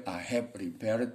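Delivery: "I have repaired" with each word sounded out slowly; accepted reading variant. Shown as a demonstration. Teacher showing students an allowed reading, sounded out. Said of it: "Bacanya boleh".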